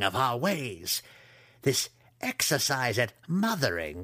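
measured, stately matriarch; lightly voiced imperious matron giving orders; commanding matron.

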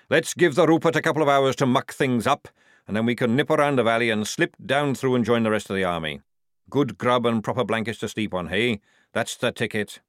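loud, hearty sergeant; rally the lads briskly; sergeant character. Acted.

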